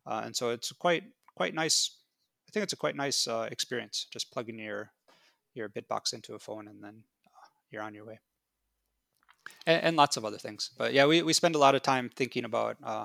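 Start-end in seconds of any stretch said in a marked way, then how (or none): 4.1-8.2 whispering. Real, not acted. Trailing off very softly.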